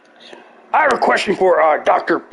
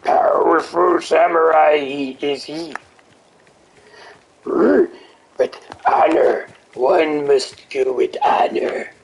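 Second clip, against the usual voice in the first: lightly voiced Yoda, slow and halting; a hint of Yoda musing on honor; slower than usual. Yoda lecturing about honor. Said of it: "I could do Yoda".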